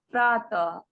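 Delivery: प्रातः with the visarg dropped, said as praat; wrong way. Shown as a demonstration. Teacher shows a pupil's mistake. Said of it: "प्रातः ऐसे नहीं बोलना है".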